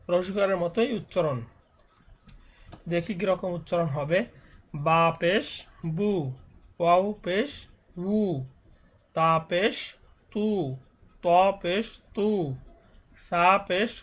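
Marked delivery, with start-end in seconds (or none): 4.9-13.9 recitation of each letter with পেশ ending on উ; teacher sounding out each syllable with পেশ; pesh letter drill. Shown as a demonstration.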